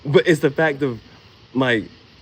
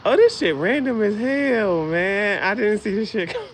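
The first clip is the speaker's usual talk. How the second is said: surprised; 8 semitones higher than usual. Retold or imitated. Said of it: "I'm like".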